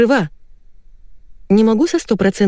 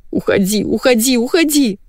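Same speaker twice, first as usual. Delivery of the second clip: tearful pleading; 6 semitones higher than usual. A narrator's reading. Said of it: "Жена заплакала, сквозь слёзы".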